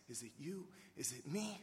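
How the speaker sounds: lightly voiced disciples jostling; mock bickering. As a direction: toss it off under your breath like petty rivals.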